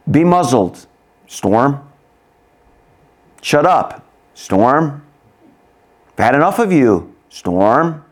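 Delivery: firm command with pauses; stern rebuke. Acted. Jesus rebuking the storm, stern rebuke. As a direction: order it silent, forcefully. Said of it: "rebukes the wind".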